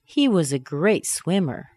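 slow, emphatic "great swimmer"; seeking agreement. Shown as a demonstration. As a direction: state it expecting agreement. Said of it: "I want you to agree with me".

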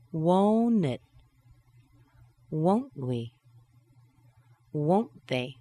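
each tag falls, expecting agreement; falling tag. Shown as a demonstration. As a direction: drop it down at the end of each. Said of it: "Now let's drop it down".

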